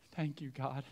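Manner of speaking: softly whispered-like thanks, held back; Mary moved to quiet tears by the shepherds; hushed thanks. Pretend. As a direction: breathe a soft thank you. Mary tearful, shepherds arrive.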